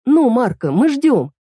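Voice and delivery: high, pressing, impatient tease; hurrying him. A narrator's reading. Fairy Грей hurries Марко to say a name, high and pressing. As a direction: push him to answer now. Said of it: "торопила его фея Грей".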